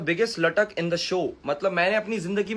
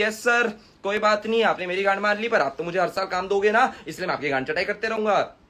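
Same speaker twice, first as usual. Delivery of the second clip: mock yes-man. Creator mimics others who swallow mistreatment for work, mock-servile. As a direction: imitate a grovelling industry hanger-on. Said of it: "मैं बाकियों की तरह नहीं कि".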